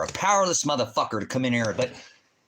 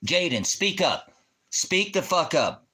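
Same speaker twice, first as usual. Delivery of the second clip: slow, high, seething command; slow angry demand; 6 semitones higher, slower than usual. Real, not acted. Streamer slowly demanding the viewer speak up. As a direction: drag each word out at him.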